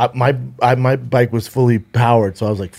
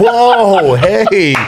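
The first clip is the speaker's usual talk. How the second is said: mock defensive; 6 semitones higher, much slower than usual. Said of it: "I was like".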